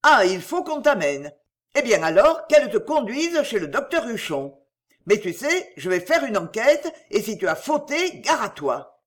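loud, booming threats; loud threatening rant. Acted. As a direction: make the windows ring. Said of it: "des éclats de voix qui faisaient résonner les vitres".

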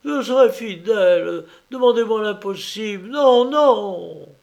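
high, loud pleas muffled by a mask. Acted. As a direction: cry out through a mask in panic. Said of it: "d'une voix étouffée par son masque".

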